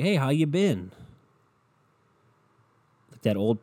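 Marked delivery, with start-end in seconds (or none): 0.0-0.9 lightly voiced, higher-pitched greeting; a hint of an old pal saying hello; imitated older buddy's greeting. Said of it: "he was like".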